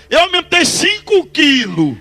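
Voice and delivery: high, drawn-out mock triumph; gleeful boast. Pastor teasing the sorcerer about his macumba, gleefully boasting.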